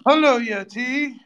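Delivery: high, slow robotic greeting. Pretend. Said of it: "I'm a robot".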